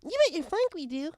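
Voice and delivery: high, loud, brash accept; brash eager yes; eager acceptance. Acted. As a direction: jump at the bet. Pinks accepting the wager.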